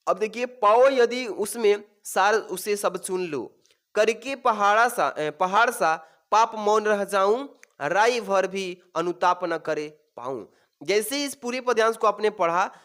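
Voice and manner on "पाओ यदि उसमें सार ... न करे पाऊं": slow, measured verse reading; deliberate classroom poem reading; poem recitation. Acted. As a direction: recite the verse line by line, drawing it out. Reads verse aloud from the passage.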